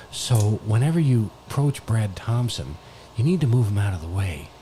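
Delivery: hushed golf color commentary; low, soft deadpan commentator. Acted. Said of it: "You're the color commentator".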